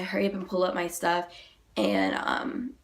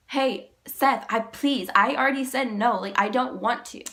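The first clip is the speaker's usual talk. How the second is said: retold plea; 3 semitones higher, 4 dB louder than usual. Freaking out, begging him to stop.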